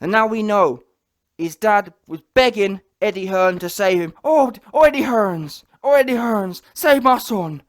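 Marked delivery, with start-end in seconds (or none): 4.2-7.6 mocking pleading dad.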